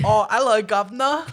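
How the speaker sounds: mock Irish brogue on hello; Irish accent, badly faked. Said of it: "it's the worst that I've ever heard".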